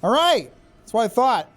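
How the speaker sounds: gloating, high-pitched shout of dominance; taunting shout. Real, not acted. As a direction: lord it over the foe. Taunting enemy during fight.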